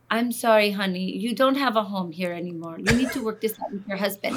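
lightly voiced mom with Spanish accent; a hint of a Spanish-accented mother. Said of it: "in her thick Spanish accent".

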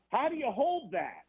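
high-pitched pretend yell, no real volume; mock dugout heckle. Player needling a pitcher from the dugout, mock yell. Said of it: "is gonna yell out".

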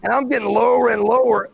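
ordinary talk, nothing marked

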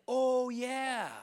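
high, loud sudden recollection, as if he'd forgotten; the dad suddenly remembers his youngest son; sheepish oh yeah. Retold or imitated. Father suddenly remembering David.

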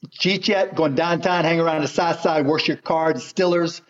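Pittsburgh accent. Shown as a demonstration. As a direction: demonstrate a Pittsburgh accent with casually run-together words. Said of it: "That's a Pittsburgh accent".

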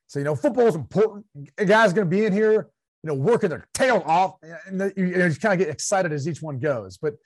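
a hint of a twangy Southern coach at the podium; lightly voiced coach giving a press conference; mild imitation of a football coach at the mic; Jay Gruden coach voice. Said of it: "coach voice".

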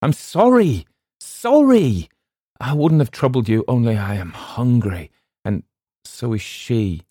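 high, plaintive cry fading away; wailing apology, dropping to a weaker plea; hopeless and pathetic. A narrator's reading. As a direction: plead piteously from far off, then sink. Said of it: "sounding extremely hopeless and pathetic".

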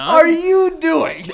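slow, high, loud laughing question; laughing disbelief. Real, not acted. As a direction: lose it mid-question. Reacts to pig impression.

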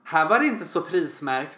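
mock complaint aimed at staff; pointedly loud complaint. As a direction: imitate a customer grumbling to be overheard. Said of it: "så måste de se lite hö-, högt".

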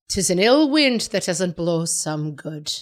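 put-on slow, lilting Irish accent proverb. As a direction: say it like an Irish grandmother. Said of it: "It sounds better if you say it in an Irish accent".

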